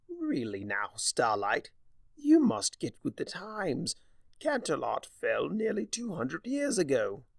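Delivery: lightly voiced sly Discord. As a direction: savor the words smugly. Discord teasing Starlight.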